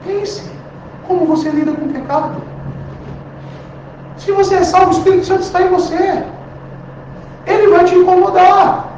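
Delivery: high, loud revival preaching; fervent preaching. Acted. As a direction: preach with rising fervor. Preaching at full force.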